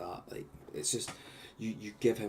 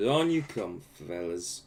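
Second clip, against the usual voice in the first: goblin voice; 7 dB louder than usual. Acted. Goblin lets the party in.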